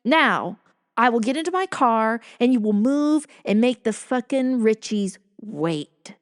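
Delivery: mildly acted angry ultimatum; retold rage. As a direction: imitate an enraged husband laying down orders. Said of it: "That is the level of his rage".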